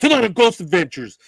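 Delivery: sudden, loud, high-pitched scream. Recounting how the show opening made praying people jump in a haunted monastery, Ghost Adventures host screaming. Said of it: "because he screamed".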